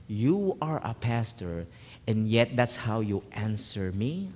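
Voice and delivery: low, soft, measured rebuke; hushed, disappointed questioning; quiet divine reproof. Retold or imitated. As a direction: reprove gently but gravely, as God to a pastor. Voice of God reproves him.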